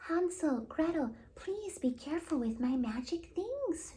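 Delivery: high, calling plea to be careful; cried out. Acted. Willow crying out to the twins playing with her magic, high anxious plea. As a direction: call out anxiously to the meddling twins. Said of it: "she cried".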